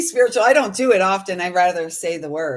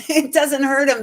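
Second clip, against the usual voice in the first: "It doesn't hurt him" said again through a laugh, higher; laughing repeat; 5 semitones higher, 4 dB louder than usual. Real, not acted. Insisting to the listener the dog is fine, laughing.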